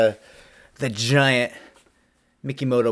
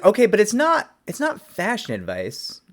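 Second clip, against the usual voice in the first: mock exasperated protest; 12 semitones higher, 5 dB louder than usual. His protest, retold.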